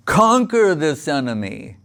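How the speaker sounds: emphatic, rousing command; pep talk. Retold or imitated. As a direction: spur them on to fight. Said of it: "he's giving Arjuna a pep talk".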